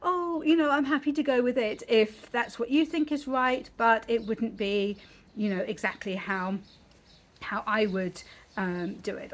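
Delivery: sweeten the objection until it barely counts; mock-polite Briton hedging; overly polite Brit. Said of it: "the most I would say is".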